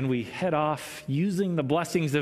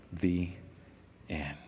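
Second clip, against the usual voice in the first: measured read-aloud with pauses between phrases; story narration. A narrator's reading. Preacher reads a children's story to listeners, measured storytelling. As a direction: read it as a gentle fable, letting endings drop.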